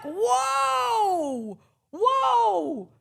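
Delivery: high, loud, slow retort; shouting back at the family; incredulous shout. Retold or imitated. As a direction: fire it back at them. Her retort, retold.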